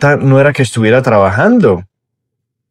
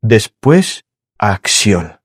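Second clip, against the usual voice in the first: slow emphasis; slower than usual. Shown as a demonstration. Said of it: "aquí puede estar la clave".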